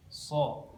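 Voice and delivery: "So" through a nearly closed, rounded mouth; thick, covered "So". Shown as a demonstration. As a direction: narrow the mouth for "So". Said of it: "hampir tertutup".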